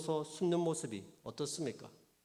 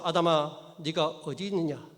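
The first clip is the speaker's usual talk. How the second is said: God calling out; 5 dB louder than usual. Acted. Preacher calling out God's words.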